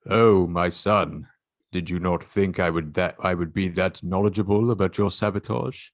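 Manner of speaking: lightly put-on British villain father; British accent. Father taunting his son in a light British accent. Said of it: "how good's your British accent?".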